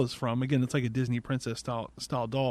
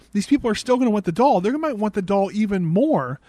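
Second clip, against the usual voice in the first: exasperated rant; 5 semitones higher, 5 dB louder than usual. Real, not acted. Ranting at plot hole.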